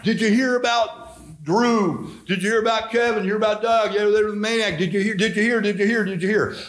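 imitating townsfolk buzzing, high-pitched; excited town gossip. Townspeople passing the Legion story around, excited gossip. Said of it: "everybody run around".

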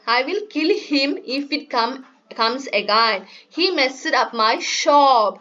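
slow, careful story reading to a class; reading to children. Acted. Teacher reading a storybook aloud to her class, slow and careful. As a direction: read each English word slowly for the kids.

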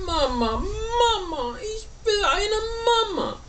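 high, drawn-out wail of a little bird; crying. A narrator's reading. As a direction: wail for mother in a storybook sob. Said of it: "dass er anfing zu weinen".

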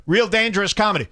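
ordinary talk, nothing marked

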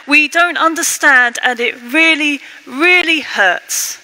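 acted anguished plea to God, mounting as it goes; overcome with emotion. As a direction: let the hurt take over as you plead. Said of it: "The emotion has got too much for the psalmist".

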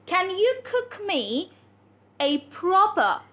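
slow, careful modelling with crisp consonants; tongue-twister demo. Shown as a demonstration. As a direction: draw the words out slowly for learners. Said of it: "Say the K sound".

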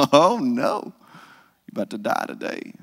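a mother's alarmed under-breath warning; worried mother. Retold or imitated. Mother fearing for her son, alarmed then hushed. Mother reacting to hometown hostility.

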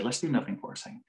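softly spoken, unhurried reassurance; calm prosody. Retold or imitated. Psychologist to agitated client, soft calm voice. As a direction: say it quietly to settle him. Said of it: "I was using calm prosody".

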